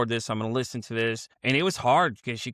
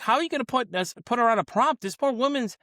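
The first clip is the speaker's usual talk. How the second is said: retold outrage; 10 semitones higher than usual. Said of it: "I was so mad because".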